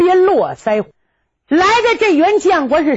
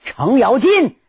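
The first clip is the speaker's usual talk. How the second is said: a commanding call of stop, only mildly raised; loud shout; 5 semitones higher than usual. Acted. A general halts the fighting grandfather, commanding shout. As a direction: bark the order across the field. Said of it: "就听有人大喊一声".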